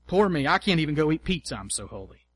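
whiny martyr, fading to a murmur; mock self-pity. A preacher mocking the pious martyr, fading self-pity. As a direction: ham up the poor-me sulk, then drop away.

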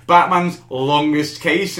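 slow, proud announcement of the title; grand title reveal. Retold or imitated. Imagined Snyder pitching his title in a meeting, slow and proud. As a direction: unveil Batman's Longest Case slowly like a triumph. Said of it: "picture Snyder getting up and going".

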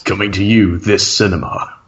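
low dramatic trailer announcer; movie trailer voice. Shown as a demonstration. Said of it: "Movie trailer voice".

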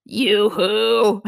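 bad Scottish robot accent; sing-song Scottish yoo-hoo. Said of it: "That was a terrible Scottish accent".

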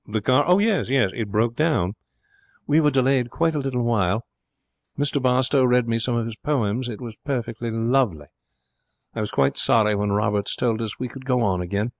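lightly voiced society girl; a touch of airy unconcern; airy young lady. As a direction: brush it off with breezy politeness. Voices Elsa answering Martin airily.

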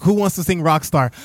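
excited concert shout. Retold or imitated. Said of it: "you don't know how loud I was".

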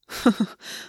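brief breathy chuckle; short laugh. A narrator's reading. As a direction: let out a small acted laugh. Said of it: "August laughed".

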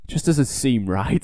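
slow, dry, unbothered quote; deadpan understatement. Retold or imitated. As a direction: shrug it off slowly. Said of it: "He's like".

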